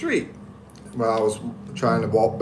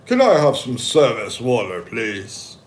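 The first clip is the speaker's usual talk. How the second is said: polite request demo; 3 dB louder than usual. Shown as a demonstration. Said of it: "you say".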